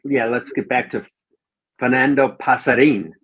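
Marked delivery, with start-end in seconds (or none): 1.8-3.1 "Pasarin" carefully stressed on the last syllable; careful pa-sa-REEN for "Pasarin"; corrected pronunciation. Shown as a demonstration. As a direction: say Pasarin with a firm final "een". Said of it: "you emphasize the in part".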